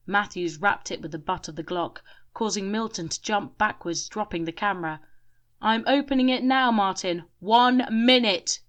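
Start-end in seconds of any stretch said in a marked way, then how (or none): 5.6-8.6 high, loud yell. A narrator's reading. Grim yelling the countdown to Martin. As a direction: yell a warning across the room. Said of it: "yelled Grim".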